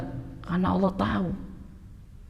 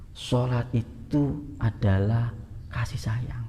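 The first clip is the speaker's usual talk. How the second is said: tender whisper; 5 dB quieter, much slower than usual. Acted. Preacher softening on God's love.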